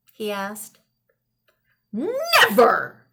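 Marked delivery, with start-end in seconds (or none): 1.9-3.1 mild mock shout. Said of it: "shouted the old man".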